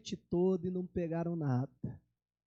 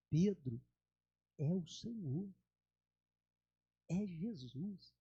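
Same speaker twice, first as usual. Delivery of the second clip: hushed awe; 2 semitones lower, 7 dB quieter, slower than usual. Retold or imitated. John telling Peter it is the Lord, hushed awe. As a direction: breathe the recognition quietly. John realizes it's Jesus.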